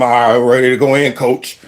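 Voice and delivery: low, gruff fake-polite voice; mock deep player voice. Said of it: "come running out there talking about some".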